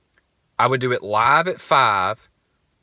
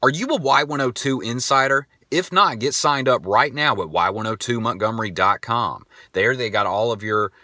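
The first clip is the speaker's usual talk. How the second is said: lightly put-on radio DJ patter; fake radio plug. Shown as a demonstration. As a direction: recite a well-worn station promo. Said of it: "This is how it sounded".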